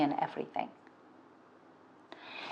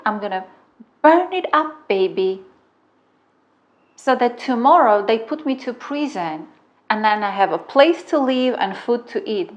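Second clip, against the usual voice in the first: higher and louder, building to a taunt; defiant threat; 4 semitones higher, 4 dB louder than usual. Retold or imitated. Retelling her threat to burn the roommate's car, loud and defiant. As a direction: hurl the threat back at her. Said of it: "I turned on my inner man".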